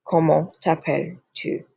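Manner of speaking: "Comment t'appelles-tu?" with the S of "t'appelles" unpronounced; French model phrase, no S sound in "t'appelles"; silent final S. Shown as a demonstration. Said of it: "you do not pronounce this S".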